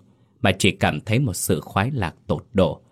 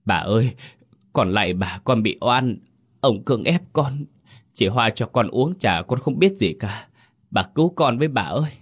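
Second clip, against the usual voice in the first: high, begging voice, rushing at the end; wronged servant girl begging, pitch climbing; desperate pleading; 4 semitones higher than usual. Acted. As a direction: plead for mercy on your knees. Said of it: "van xin thảm thiết".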